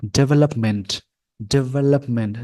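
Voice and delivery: डेवलपमेंट as "de-VE-lup-ment"; American pronunciation. Shown as a demonstration. Teacher repeating the word for learners, American pronunciation. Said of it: "pronunciation ये हो जाएगा".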